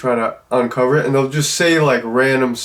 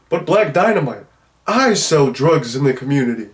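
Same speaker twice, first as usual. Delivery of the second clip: mock protest, pitched up on the name; Chocolate Giddy Up; 2 semitones higher than usual. Reviewer quotes his favorite line, lightly acted pimp protest. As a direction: play a movie pimp's indignant objection. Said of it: "Just the way he delivers it".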